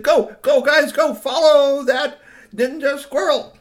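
very loud, high shouted order; urgent command. A narrator's reading. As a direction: send them off on a chase at full volume. Witch orders the chase.

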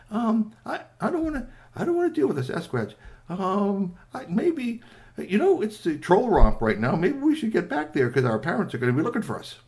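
high, fast nervous babble; frightened little troll wanting to go home; scared high voice. Acted. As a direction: talk your way out of danger, scared. Scared Bernie wants to leave.

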